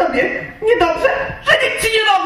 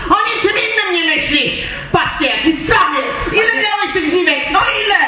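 jealous accusing; 5 semitones higher than usual. Acted. Wife jealously accuses husband of other women, shouting. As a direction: hurl the accusations at him.

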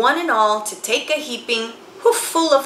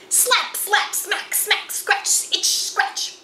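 frantic swatting; 10 semitones higher, slower than usual. A narrator's reading.

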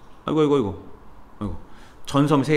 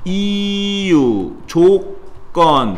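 이유 and 조건 each drawn out very slowly; slow listing; much slower than usual. Shown as a demonstration. Teacher dictating 이유, 조건 slowly for note-taking. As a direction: stretch out 이유, 조건 as a list to write down. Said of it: "teacher lists the types slowly".

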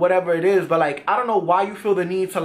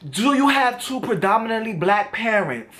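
imitating his pushy, challenging question; mock the combative tone he came with; a retold, hostile challenge; confrontational energy. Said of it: "just like that too, with that energy".

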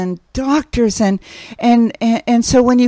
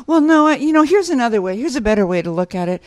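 quick, higher mock of a correcting parent; correcting know-it-all; 3 semitones higher, faster than usual. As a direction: rattle off the better way. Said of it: "as my parents said".

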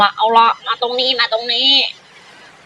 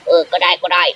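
changed voice; 3 semitones lower than usual. Acted. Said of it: "แล้วทำไมเสียงนายเปลี่ยนน่ะ".

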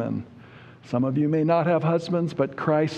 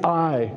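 "I" set apart and stressed; emphatic I. Shown as a demonstration. Preacher stressing who will be the wall, emphatic. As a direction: land firmly on the word "I".

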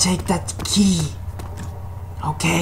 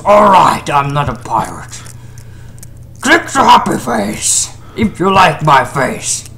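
Flappy Face; 2 semitones lower than usual. Acted. Flappy Face denies being a pirate and asks for clicks, silly character voice. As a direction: play a goofy sidekick giving the outro. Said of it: "Flappy Face, can you do the outro?".

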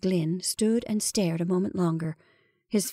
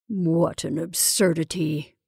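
slow, easy brush-off; easy dismissal; 3 semitones lower, slower than usual. Acted. Henry brushing off the shadow, easy. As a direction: wave it away lightly. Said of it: "he said easily".

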